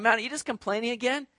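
a lightly voiced, exasperated God brushing off a complainer; imagined annoyed God. Pastor voicing God fed up with David's complaining, mildly exasperated. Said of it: "God's not a God sitting back going".

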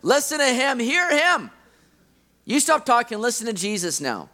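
firm interruption, each order pressed hard; cutting him off. Retold or imitated. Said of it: "God just has to kinda cut him off".

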